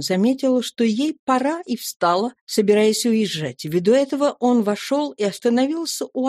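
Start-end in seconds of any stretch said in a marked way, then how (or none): none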